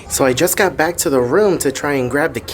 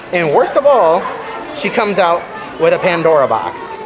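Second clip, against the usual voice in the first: mock accusing; 3 semitones higher than usual. Real, not acted. Mock interrogation of wife.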